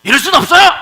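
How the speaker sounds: high, loud indignant shout; acted fury, pitched high and loud; angry protest. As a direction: cry out as the outraged brother. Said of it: "막 화를 내고 막".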